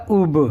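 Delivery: اوب sounded out as "ub" with released b; demonstrated اوب, "ub-uh"; pesh joined to be. Shown as a demonstration. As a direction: join "u" to b in اوب. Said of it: "پیش کا pronunciation جو ہے وہ او".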